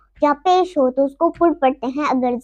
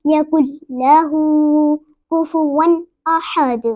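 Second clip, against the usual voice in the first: slow verse, long vowels held; Quran recitation; much slower than usual. Shown as a demonstration. Teacher recites the finished verse, measured recitation. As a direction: recite deliberately, echoing the last D.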